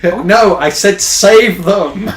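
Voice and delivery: slow, loud, laughing insistence. Retold or imitated. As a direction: insist through laughter, slowly. Playing Maria, exasperated.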